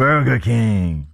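"Burger King" drawn out very slowly, advert style; slow announcer Burger King. Shown as a demonstration. Second try at the ad, "Burger King" slow and drawn. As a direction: stretch "Burger King" like a jingle voice-over.

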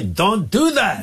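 "Don't do that" drawn out slow and high. Retold or imitated. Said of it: "I'm even giving it some extra booster rockets".

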